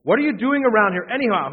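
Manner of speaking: put-on older brother snapping, fast and loud; angry demand. A narrator's reading. Older brother angrily confronting David at the battlefront. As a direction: read Eliab's demand with a hard edge. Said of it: "he was angry".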